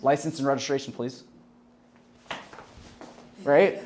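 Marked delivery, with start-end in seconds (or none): 0.0-1.2 falling authoritative tone; downswing. Shown as a demonstration. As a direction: state it flat and firm like a real cop. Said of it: "what do they do".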